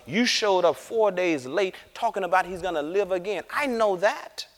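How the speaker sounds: grieving sister scolding Jesus for coming late, frustrated. Retold or imitated. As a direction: vent your grief and impatience at him. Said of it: "Can y'all see the frustration?".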